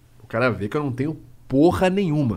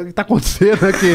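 calling down; 4 semitones higher, 4 dB louder than usual. Retold or imitated. Man on balcony calls out.

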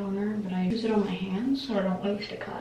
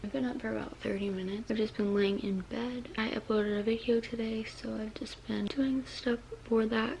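retainer lisp. Real, not acted. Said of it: "Sorry, I have a lisp. I have my retainers in".

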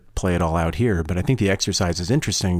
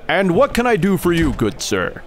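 bartender voice; 10 semitones higher, 4 dB louder than usual. Pretend. Bartender role greeting customer.

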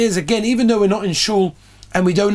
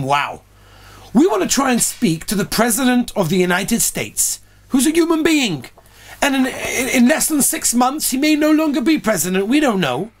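amazed; 5 semitones higher than usual. Retold or imitated. Rebbe marvels to his students.

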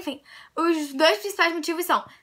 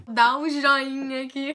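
awkward mock plug; slower than usual. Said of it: "Quem que fala joinha?".

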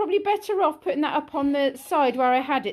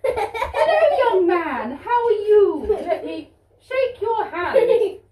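posh queen voice; 3 semitones higher than usual. Pretend. Mother keeps playing the Queen.

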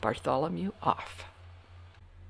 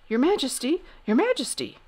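raised, urgent call to the king; crying out; 7 semitones higher, 4 dB louder than usual. A narrator's reading. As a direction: call out high to the king, who is far up the stairs. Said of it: "cried out Sir Alaric".

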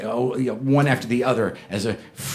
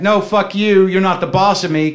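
higher, louder bratty retort; mock childish anger; 6 semitones higher, 5 dB louder than usual. Her texting him back, bratty mock anger. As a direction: spit it back like a brat.

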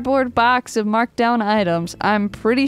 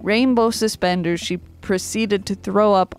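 formal speech. Acted. Mock formal commemoration speech.

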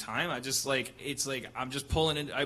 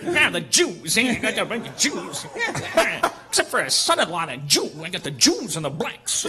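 laughing mock voice of a bigot; loud, giggly hammed-up bigot; Nazi guy impression; 4 semitones higher, 6 dB louder than usual. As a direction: imitate the Nazi from the video. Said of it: "sound like that Nazi from the Vice video".

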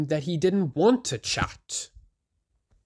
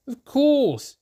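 Toby voice; 12 semitones higher, 4 dB louder than usual. A narrator's reading. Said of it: "said Toby".

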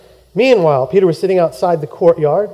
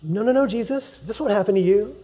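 soft, hushed no's; quiet protest; 3 semitones higher, 7 dB quieter than usual. Retold or imitated. Preacher recalling Peter's protest, softly. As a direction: barely voice the denial.

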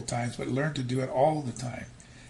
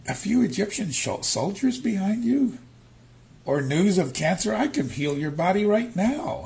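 God speaking; 9 semitones higher, 6 dB louder than usual. Retold or imitated. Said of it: "Almighty God is saying".

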